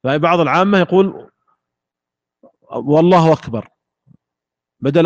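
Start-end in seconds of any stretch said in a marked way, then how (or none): 2.7-3.7 والله أكبر run together with a w sound replacing the glottal stop, akbar as wakbar; hamza turned waw. Shown as a demonstration. Teacher imitating common folk, hamza said as waw. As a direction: glide into أكبر with a w, "Allahu wakbar". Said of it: "قلبها واو".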